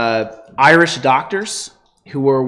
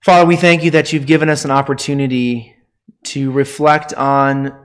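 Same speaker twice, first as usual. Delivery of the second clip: earnest, measured pastoral prayer; 2 semitones lower than usual. Acted. Pastor prays before sermon.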